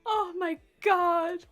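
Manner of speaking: high, laughing, slowing at the end; laughing whine. Real, not acted. Complaining to chat about the doctor, high laughing. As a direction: giggle out the complaint. Retelling painful exam, laughing.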